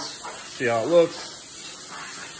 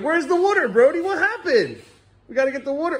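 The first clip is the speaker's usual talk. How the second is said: imitating the dog; 12 semitones higher than usual. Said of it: "He's like".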